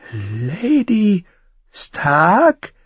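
high, halting, thick voice; thick-voiced question. A narrator's reading. Innkeeper questions the name Lady Stark, high and thick-voiced. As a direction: ask haltingly as if choked. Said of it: "fragte Mascha Herdel mit belegter Stimme".

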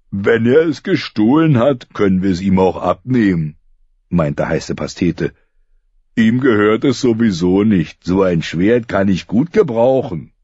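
lightly voiced greedy boy. Hot Pie eyeing Arya's sword, lightly voiced. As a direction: talk yourself into taking it.

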